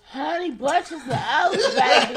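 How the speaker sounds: laughing drawl. Real, not acted. Teasing cereal name, laughing.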